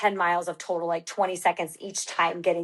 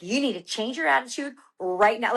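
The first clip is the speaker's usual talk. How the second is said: imitated scolding, kept serious; firm and stern; 3 semitones higher than usual. Husband telling his struggling wife off, firm and stern. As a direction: deliver it as a firm order, holding back a smile. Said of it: "Like, so firm".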